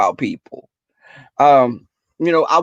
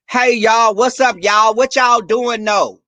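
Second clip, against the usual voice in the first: lightly voiced, a bit higher and louder; mocking wannabe slang; 5 semitones higher, 3 dB louder, slower than usual. Mocking a white friend trying to sound black, lightly voiced. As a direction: poke fun at someone faking the lingo. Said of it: "they try to act like they black".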